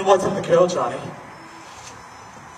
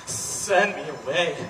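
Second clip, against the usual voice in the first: low, quiet plea; hushed entreaty; 11 semitones lower, 10 dB quieter than usual. Acted. Inmate entreats the doctor to let him out, hushed and low. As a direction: beg softly and low.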